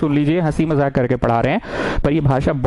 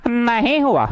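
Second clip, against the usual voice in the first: higher, swooping singsong on each half; drilled catchphrase; 6 semitones higher, slower than usual. Shown as a demonstration. Teacher drilling the rule into students, in exaggerated singsong. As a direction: chant the rule in two big falling swoops.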